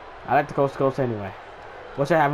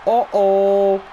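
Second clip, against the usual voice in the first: hyped call; 8 semitones higher, slower than usual. Real, not acted. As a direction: call the slam like a fan. Hyped calling the chokeslam.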